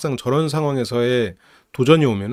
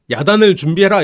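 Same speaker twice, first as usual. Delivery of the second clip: commander's order; 5 semitones higher, 4 dB louder than usual. Retold or imitated. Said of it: "아빠도 이제".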